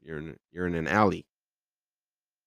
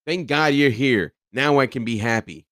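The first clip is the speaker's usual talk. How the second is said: needy partner voice; 4 semitones higher, 6 dB louder than usual. Acted. Acted quote of a needy partner.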